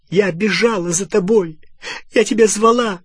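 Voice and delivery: high, loud reproach building; angry, wounded outcry; anguished accusation. A narrator's reading. Hermione hurls accusations at Ron.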